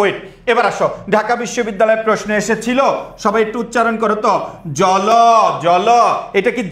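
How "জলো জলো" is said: জল said with an open 'o' after the l; final vowel sounded. Shown as a demonstration. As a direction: add a drawn-out vowel to the end of জল. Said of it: "লয়ের সাথে অ থাকলে". (জল-এর ল-এ 'অ' যোগ করে উচ্চারণ)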